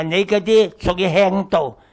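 ordinary talk, nothing marked

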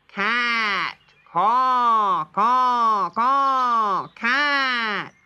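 loud, high crow alarm calls; shouted crow warning; loud warning caws. Acted. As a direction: call out the danger. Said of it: "called as loudly as he could".

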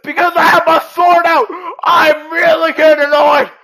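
exasperated, rattled exclamations; flustered panic. Real, not acted. Player unable to kill the bear, flustered panic. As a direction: cry out, rising into helpless panic.

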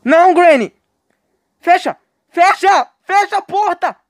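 high, loud shouts; panicked yell. Real, not acted. Gamer yelling as Granny chases him.

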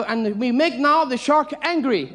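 slow, mock-foreign presenter; deliberate, slightly broken English. Divers baiting the shark, slow mock-foreign narration. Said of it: "they go".

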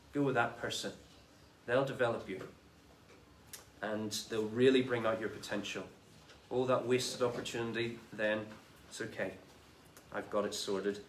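calm him down, it's all taken care of; gentle reassurance. Acted. Lord reassuring the third servant.

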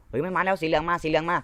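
high, urgent alarm call; alarmed warning. Real, not acted. Gamer warning the team, alarmed. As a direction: warn that the enemy is coming.

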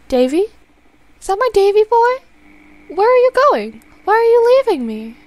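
put-on desperate mother calling her boy; pleading old mother. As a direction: beg your son not to go. Mother suddenly recognizes son.

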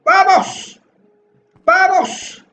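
high, punchy repeated cheer; shouted rallying cry. Real, not acted. Gamer urging himself through the level, shouted rallying cry. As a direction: shout yourself on, pitched high. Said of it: "Voy a seguir gritando "vamos".

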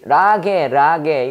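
"라게", ra-ge with hard g; misreading of rage. Retold or imitated. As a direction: read rage letter by letter as Korean "라게". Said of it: "옛날에 이거 라게나 이거 읽을 때는".

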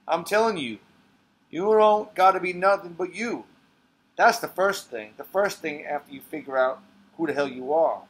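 put-on forceful old barman schooling a young man; Walter, lecturing. Becoming Walter, lecturing a boy about life, forceful. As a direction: press every point hard, demanding he listen. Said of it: "she becomes Walter".

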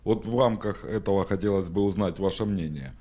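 normal talking voice

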